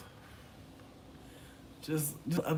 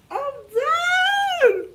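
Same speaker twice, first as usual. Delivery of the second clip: laughing; 9 dB louder than usual. Real, not acted. Cracking up at own joke.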